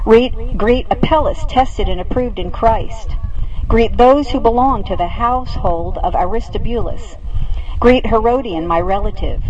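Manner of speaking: measured liturgical reading, phrase by phrase; scripture reading. Acted. Pastor reading Paul's greetings to the congregation, measured scripture reading. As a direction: read a list of greetings solemnly to the congregation.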